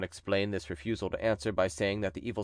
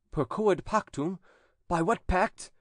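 stern, higher priest voice; exorcist priest; 9 semitones higher, slower than usual. A narrator's reading. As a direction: question the demon with solemn authority. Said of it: "he asked the following questions".

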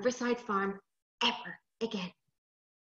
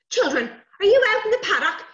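loud, raised fatherly call; shouting; 10 semitones higher, 8 dB louder than usual. Acted. Father shouting to children as he runs, loud. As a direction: holler it high across a distance. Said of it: "he shouted as he ran".

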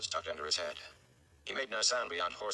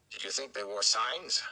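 wry; 3 semitones higher, 4 dB louder than usual. Acted. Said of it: "the mayor said wryly".

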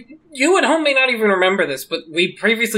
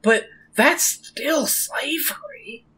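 whispered verdict; 7 semitones higher, 3 dB quieter, much slower than usual. Real, not acted.

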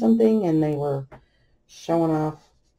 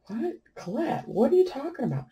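high, softer mock-bewildered mom; puzzled parent, pitched up; retold bewildered question; 8 semitones higher, 5 dB quieter than usual. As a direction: question the kid in a raised, quick voice. Mother's startled reply to her daughter.

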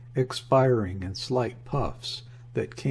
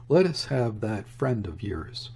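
plain reading voice

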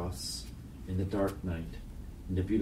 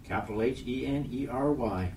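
put-on child speller; 5 semitones higher than usual.

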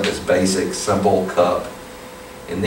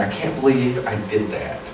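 regretful inner voice; 2 semitones lower, 5 dB quieter than usual. Retold or imitated. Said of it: "you look back and you say".

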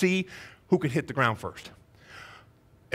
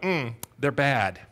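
mild disapproval; 3 semitones lower, much slower than usual. Retold or imitated. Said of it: "doesn't mean like".

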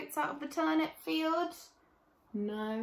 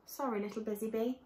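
humble apology; 4 dB quieter, faster than usual. Acted. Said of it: "they said humbly".

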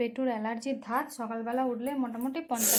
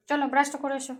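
calling out; 3 semitones higher, 6 dB louder, faster than usual. Real, not acted. Calling the child to brush.

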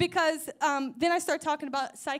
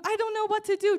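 imitated crying; 6 semitones higher, 4 dB louder than usual. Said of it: "just starts crying and crying and crying".

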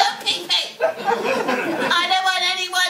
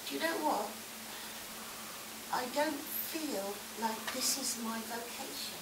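mock sad; 3 semitones lower, 15 dB quieter than usual. Sad confession, very soft.

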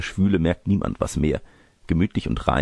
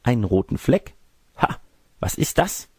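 higher, startled questioning with a small gasp; startled girl; 6 semitones higher than usual. Acted. Girl spots a red mark on grandmother's shoulder, high startled voice.

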